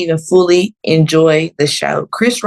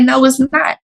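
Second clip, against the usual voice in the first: firm denial; 8 semitones higher than usual. Retold or imitated. Arguing with staff member.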